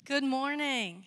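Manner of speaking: loud, cheerful call to the congregation; projected morning greeting. Real, not acted. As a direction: greet a full room out loud. First greeting to congregation, then repeated.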